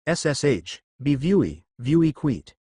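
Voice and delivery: w for r, a hushed cartoon-hunter lisp; hunter's lisp. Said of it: "why are you speaking with an accent".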